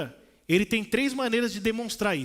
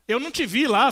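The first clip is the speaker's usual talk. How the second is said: raised, insistent denial; louder protest, a touch exasperated; emphatic protest; 5 semitones higher, 7 dB louder than usual. Retold or imitated. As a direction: plead that you truly did not see her. Pleading apology to offended sister.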